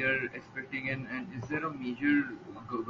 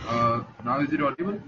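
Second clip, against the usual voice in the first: raised voice so they hear; louder for bad line; 8 dB louder than usual. Real, not acted. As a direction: project it for a bad phone line. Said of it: "can you try to speak louder".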